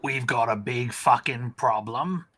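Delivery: a voice from the wrong game, lightly put on; wrong character voice. Rezkar warns the group in the wrong voice. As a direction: grab the wrong character's voice by mistake. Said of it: "the wrong voice".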